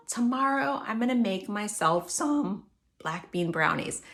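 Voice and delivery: calm, reassuring self-talk; peace-filled, relaxed. Shown as a demonstration. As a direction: talk yourself down gently. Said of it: "with that peace-filled, relaxed, not panicked voice".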